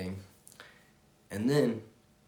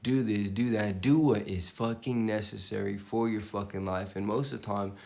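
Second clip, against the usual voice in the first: louder, pushing commands at the viewer; loud tough-love pep talk; loud motivational rant; 4 dB louder than usual. Real, not acted. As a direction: bark orders like a hype coach.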